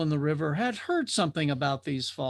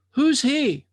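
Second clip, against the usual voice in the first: curious drifter; 9 semitones higher, 6 dB louder than usual. Acted. Drifter asks about the seeker.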